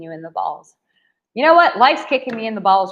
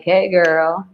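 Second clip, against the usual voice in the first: charming; 6 semitones lower than usual. Retold or imitated. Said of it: "Obama with his, like, charm".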